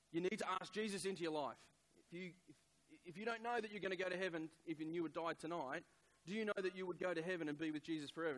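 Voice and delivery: high, loud, hurried plea; stressed urging. Retold or imitated. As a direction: press them urgently, re-enacting a stressed appeal. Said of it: "I was stressed".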